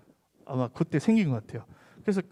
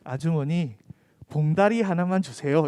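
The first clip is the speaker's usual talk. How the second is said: 봉다리 in confident Gyeongsang dialect; confident Gyeongsang slip. Retold or imitated. Friend asking the Seoul shopkeeper for a bag, confident Gyeongsang dialect. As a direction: ask boldly, saying 봉다리 the Gyeongsang way. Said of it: "자신 있게 아주머니한테".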